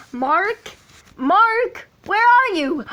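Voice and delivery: put-on high Irish-accented call searching for a friend; Jack's voice. Friend calling out to Mark in Jack's voice. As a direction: call out in a Jack-style Irish voice. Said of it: "Jack's voice".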